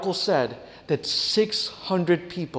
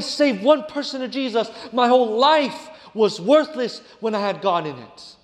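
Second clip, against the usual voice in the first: raised, higher-pitched bitter outburst; angry father; 5 semitones higher than usual. Retold or imitated. Dying father rages at his daughter over God, angry outburst. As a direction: lash out at God, grieving what was lost. Father erupts angrily at God's name.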